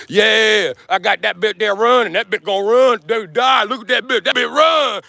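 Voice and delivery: hammed-up Southern country accent, building to a shout; imitating a country accent, ending in a yell; mock country boy accent. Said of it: "he like".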